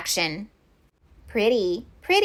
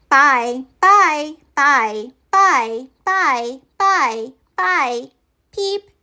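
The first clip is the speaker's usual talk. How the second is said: chirpy goodbyes; 4 semitones higher, much slower than usual. Acted. Friends chorus goodbye, tiny last peep.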